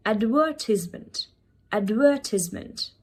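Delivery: "advertisement" as ad-VUR-tiz-ment; British pronunciation. Shown as a demonstration. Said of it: "Try to copy the same accent".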